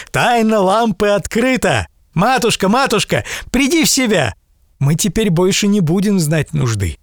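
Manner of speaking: high, overjoyed calling out; rousing his fainted mother with joy; excited young man. Acted. Aladdin rejoices, wakes mother.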